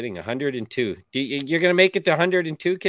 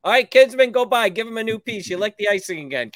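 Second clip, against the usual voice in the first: taxi dispatch radio; 6 semitones higher, faster than usual. Pretend. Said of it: "I'll be like".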